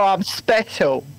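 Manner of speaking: slow, mock innocent; deadpan slow. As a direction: drag it out, deadpan. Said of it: "And I'll just go".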